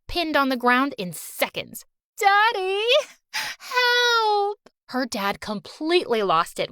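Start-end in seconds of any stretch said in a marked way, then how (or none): 2.2-4.6 high, wailing plea to daddy; crying for help. Acted. Pinned-down Julie crying to her dad for help. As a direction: shriek for rescue, near tears.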